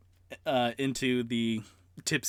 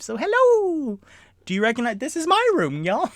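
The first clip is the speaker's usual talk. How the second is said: high, loud greeting to parents; excited hello; 13 semitones higher, 8 dB louder than usual. Real, not acted. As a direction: wave hello to mom and dad upstairs. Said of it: "My mother and father are upstairs ... watching this live".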